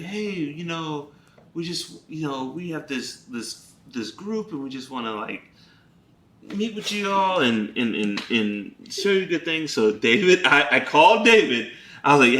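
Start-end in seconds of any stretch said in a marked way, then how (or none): 0.0-9.7 soft-spoken invitation. Retold or imitated. Neighbor's soft invitation retold.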